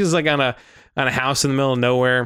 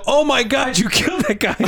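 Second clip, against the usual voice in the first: mock scream; 9 semitones higher than usual. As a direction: shriek it like a silly onlooker, laughing. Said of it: "people were screaming".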